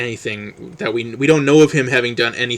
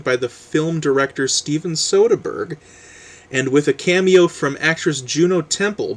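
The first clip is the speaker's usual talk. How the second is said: lively book-jacket read; animated reading aloud, lifting the key phrases; blurb read-aloud; 3 semitones higher than usual. Acted. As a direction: read the publisher's pitch with rolling emphasis.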